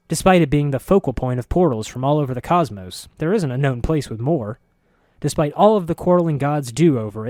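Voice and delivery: incredulous cousin ranting about the city; building exasperation. Acted.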